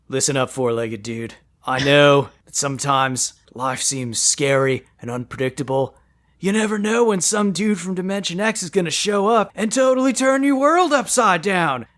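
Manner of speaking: easygoing dude talking to a horse; lightly voiced laid-back dude; surfer-dude turtle. Michelangelo voiced in surfer-dude role.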